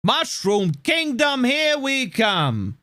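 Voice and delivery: put-on slow, lazy, lightly Italian-accented Mario quote; mock Chris Pratt's bored Italian accent, slowly; half-assed Italian accent. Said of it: "in a half-assed Italian accent".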